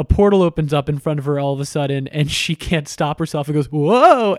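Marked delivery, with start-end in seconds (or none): 3.7-4.3 higher, louder mock "whoa"; startled yelp. Catwoman unable to stop before the portal, startled yelp.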